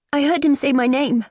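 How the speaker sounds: put-on high, strained teen voice on the verge of tears; a bullied girl pleading to be believed; tearful teenage girl. Daughter confiding bullying to mum, tearful and high.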